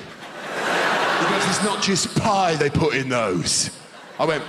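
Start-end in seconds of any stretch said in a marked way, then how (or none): 1.5-3.7 slow, meaningful Cockney line; ominous Cockney repeat. Retold or imitated. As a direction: lean in and say it darkly. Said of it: "Proper Cockney".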